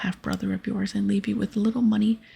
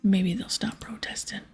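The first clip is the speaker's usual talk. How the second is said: lightly voiced pirate captain. Captain telling the hero about the zombies, lightly voiced pirate. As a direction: explain the plan like a scheming sea dog.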